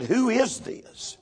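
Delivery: high, slow, probing "Who is this?"; demanding the spirit's name. Retold or imitated. Preacher to the possessed young man, high and slow.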